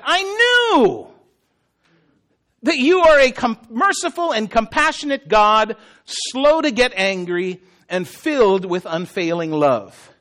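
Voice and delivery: acted exasperation, emphatic; ticked off. Jonah not complimenting God at all, mildly ticked off. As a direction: throw the praise at God as an accusation. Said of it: "He is ticked off".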